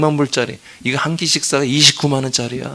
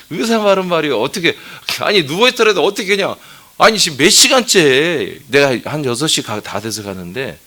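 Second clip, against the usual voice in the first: higher and louder, incredulous; mock exasperated rant; 5 semitones higher, 6 dB louder than usual. Pastor ranting to congregation about obedient patient, higher and louder. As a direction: pile on the disbelief, half-laughing.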